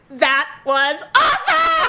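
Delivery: high, drawn-out delight through laughter; retold laughing praise. Coworkers teasing her after the slip, laughing drawn-out praise. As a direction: imitate coworkers cracking up, stretching it out. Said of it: "I started laughing".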